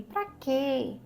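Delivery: lightly voiced chorus of dissuading neighbours; discouraging voices. Everyone discourages the bird from leaving. (vozes que desencorajam, levemente encenadas)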